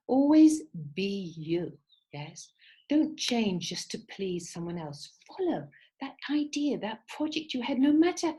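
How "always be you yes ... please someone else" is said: slow, drawn-out heartfelt words; sincere advice. Real, not acted. Teacher tells students to stay true, slow and sincere. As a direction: stretch it out, mean it.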